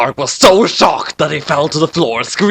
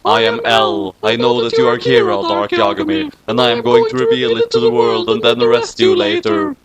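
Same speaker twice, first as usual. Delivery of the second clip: lower, possessed monotone; strange voice; 3 semitones lower than usual. Acted. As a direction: speak as someone else inside her. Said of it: "in a strange voice that was not hers".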